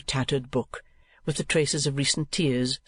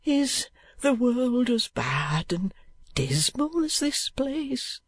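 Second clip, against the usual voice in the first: put-on high, slow, anxious boy; urgent boy; 11 semitones higher, much slower than usual. A narrator's reading. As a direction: ask it with dread. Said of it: "urged Smike".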